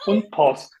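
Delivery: und Post said in German, falling; German words und Post. Shown as a demonstration. Au pair listing German words: und Post in German. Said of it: "no alemão tem a palavra".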